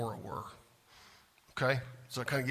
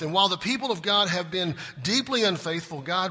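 loud, rising preacher's build; full-force pulpit preaching; fervent preaching; 5 semitones higher, 6 dB louder than usual. Real, not acted. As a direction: preach it hard to the congregation.

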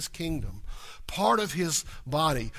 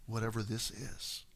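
calm trust; 6 semitones lower, 8 dB quieter, slower than usual. Retold or imitated. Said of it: "you go".

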